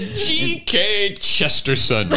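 high, slow mimicked British accent; mock British accent. Teasing the podcast guest's attempt, mock British accent. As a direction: imitate a drawn-out British accent, pitched high. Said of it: "In your best British accent".

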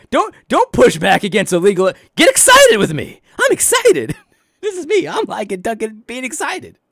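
very high, loud, silly excited squeak; mock excited preacher. Mimicking the pastor urging conservatives, squeaky. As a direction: ham up the giddy preacher.

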